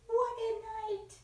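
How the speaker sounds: high, loud, slow bird voice; twittering wren. Acted. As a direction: chirp it out like a little wren. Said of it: "twitters wren".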